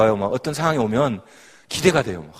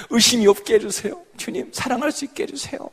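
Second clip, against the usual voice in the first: much higher, imploring plea; pleading old prayer; 7 semitones higher than usual. Retold or imitated. Woman imitating her former desperate prayers, high pleading. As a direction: beg like a doubting believer. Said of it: "막 기도, 기도했어요".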